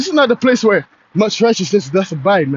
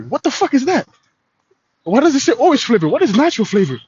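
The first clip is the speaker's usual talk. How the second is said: mock disbelief; 4 semitones higher than usual. Ranting at a juice label.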